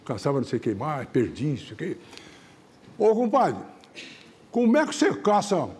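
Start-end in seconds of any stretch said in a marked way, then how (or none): 3.0-5.7 lightly voiced countryman, higher pitch; curious caboclo. Caboclo asking his hunting buddy, lightly acted curiosity. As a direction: put a higher country lilt on the question. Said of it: "O caboclo enco-, encontrou o outro".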